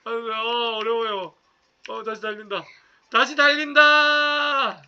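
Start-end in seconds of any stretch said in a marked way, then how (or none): 3.1-4.8 drawn-out cheer. Real, not acted. Racing game, drawing out the cheer.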